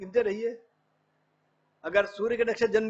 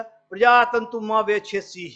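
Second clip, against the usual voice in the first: recited Sanskrit; 5 dB louder, slower than usual. Retold or imitated. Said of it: "वो कहता".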